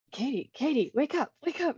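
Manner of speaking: soft wake-up call. Acted. Waking sleeping Katie gently.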